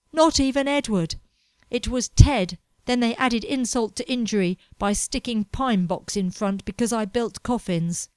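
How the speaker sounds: a hint of a bitter young man griping; lightly voiced ranting Edward. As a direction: grumble about the vile place. Edward voiced, indignant rant.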